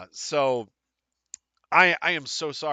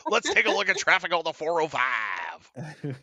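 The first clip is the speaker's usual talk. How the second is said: news anchor; 4 semitones higher than usual. Pretend. Mock news anchor traffic.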